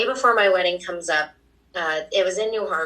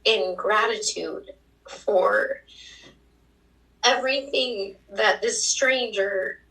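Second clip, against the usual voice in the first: voice breaking with emotion; 3 semitones higher than usual. Real, not acted. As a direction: fight back tears while remembering him. Tearful memory of dying mentor.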